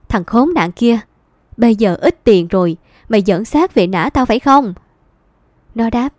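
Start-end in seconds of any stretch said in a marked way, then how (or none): 0.1-4.7 louder, biting scolding through clenched teeth; angry scolding. Acted. Mother rounding on her son at the gate, furious. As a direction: spit the words at the worthless son. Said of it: "tôi nghiến răng".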